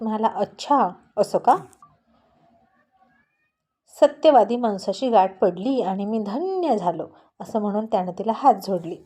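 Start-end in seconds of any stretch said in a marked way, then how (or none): 0.3-7.1 mock taunt. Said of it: "ओठ बाहेर काढून तिला टोमणा मारत".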